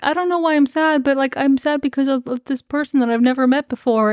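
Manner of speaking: high-pitched mock-tearful voice; put-on plaintive wail, no real crying; sad bawling. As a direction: imitate a weepy, confused lament. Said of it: "And, like, sad, bawling".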